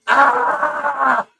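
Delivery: a mock scream of pain; startled yelp from a monkey bite; retold scream. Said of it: "driving down the highway screaming".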